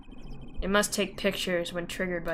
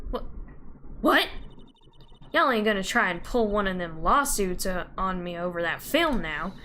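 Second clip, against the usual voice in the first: Southern woman. Acted.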